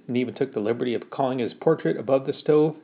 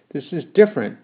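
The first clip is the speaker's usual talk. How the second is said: protesting; 3 dB louder than usual. Acted. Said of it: "I protested".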